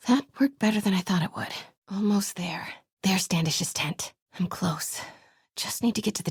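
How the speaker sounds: whispered sneaking thoughts; stealth whisper. Acted. Sneaking into the compound, whispering plans to herself. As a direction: keep it under your breath while sneaking.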